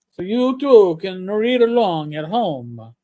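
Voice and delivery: hammy fake Italian accent; badly faked Italian, vowels added after words. Shown as a demonstration. Host telling listeners where the link is, bad Italian accent. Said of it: "In my bad, uh, Italian accent".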